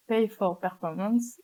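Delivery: "Pay for Performance" said slowly in an English accent. Shown as a demonstration. Tutor reading the English term to students, in a slow English accent. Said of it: "désolé pour mon accent anglais".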